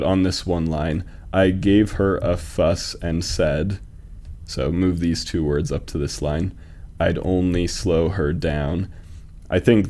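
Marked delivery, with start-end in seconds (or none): 1.3-3.8 slow, measured scansion; metrical, deliberate pacing; syllable-counting reading. Shown as a demonstration. Demonstrates joined line's rhythm. 7.0-8.9 slow, measured scansion; metrical, deliberate pacing; syllable-counting reading. Shown as a demonstration. Demonstrates joined line's rhythm.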